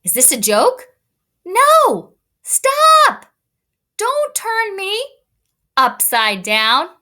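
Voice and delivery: very high loud no and stop, then slow upside down; a little boy shrieking to be set right; squealing kid protest. Shown as a demonstration. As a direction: son Anthony shrieking at his big brothers. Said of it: "Let me read that again".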